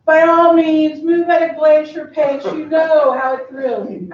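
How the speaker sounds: lightly mimicked haughty film boss line; Miranda Priestly. Employee quoting the mentor's movie impression, lightly imitated haughty boss. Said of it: "he did it just like Miranda".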